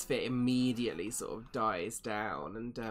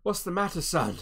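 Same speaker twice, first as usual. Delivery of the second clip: lightly voiced innkeeper, a bit louder; concerned innkeeper; 4 semitones higher, 5 dB louder than usual. Innkeeper to the drenched young man, firm concern. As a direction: check on a frightened lad. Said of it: "Toblin's like".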